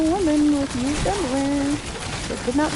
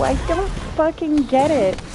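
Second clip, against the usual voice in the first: higher, pushing on don't; I DON'T fucking get it, pitched up in exasperation; exasperated; 5 semitones higher than usual. Real, not acted. Streamer baffled by bathwater buyers, exasperated higher take. Repeats the line twice.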